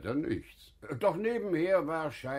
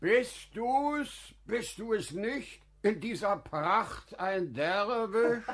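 astonished; 9 semitones higher than usual. Acted. Staunt über den prächtigen Derwisch.

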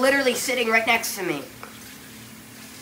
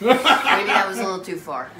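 laughing; 5 dB louder than usual. Real, not acted. Laughing at own smoking joke.

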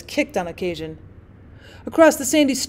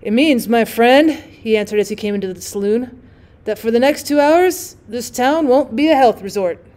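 1 grave warning; 3 dB louder than usual. Acted. Young man warns the drummer.

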